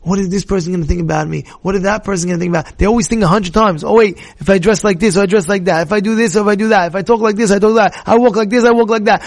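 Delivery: fast run of fussing thoughts; mock fretting. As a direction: rattle off worries, piling them up. Voicing people's anxious self-conscious thoughts.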